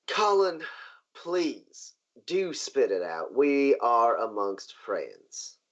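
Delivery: drawn-out, patient prompting that falls in pitch; lightly played, indulgent boss with measured pauses; lightly voiced genteel boss. Boss coaxing nervous guard among friends, genteel. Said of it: "He goes".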